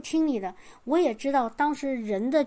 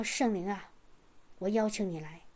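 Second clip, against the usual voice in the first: low, much softer prayer of invitation; hushed prayer; 5 semitones lower, 8 dB quieter than usual. Retold or imitated. Eyes closed, inviting the Holy Spirit, hushed and low. Praying turned away.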